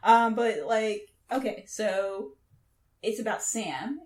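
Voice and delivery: usual speaking voice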